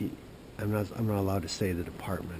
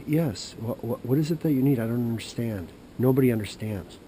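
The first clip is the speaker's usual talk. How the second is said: a hint of an exasperated snooty official; impatient, put-out official voice, louder; 2 semitones higher, 6 dB louder than usual.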